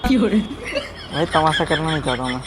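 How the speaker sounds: trying to stay cross but laughing; laughing despite himself. Real, not acted. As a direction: crack up mid-sentence. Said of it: "हंसी आ गई आपको". (हंसी रोकते हुए बोलना)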